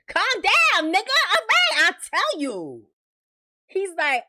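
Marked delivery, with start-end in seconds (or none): 0.1-2.8 high, panicky calm down; panicked pleading. Retold or imitated. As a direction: beg him to put the gun away. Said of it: "acting scared man".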